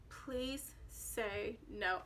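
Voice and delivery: slow, soft pleading; silent plea. Retold or imitated. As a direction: beg under your breath, very slow. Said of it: "I didn't tell him that".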